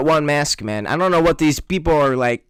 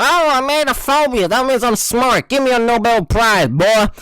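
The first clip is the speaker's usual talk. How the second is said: mock smug genius; 5 semitones higher than usual.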